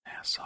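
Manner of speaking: NASA with the final syllable drawn out; elongated last syllable. Retold or imitated. Quoting a TV character's odd pronunciation, last syllable of "nasa" elongated. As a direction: stretch the end of "nasa" in imitation. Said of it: "elongates the last syllable".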